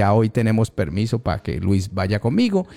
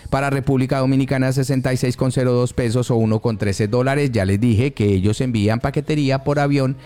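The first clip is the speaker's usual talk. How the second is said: radio ad read. Real, not acted. Host reading exchange rates for the sponsor, announcer style.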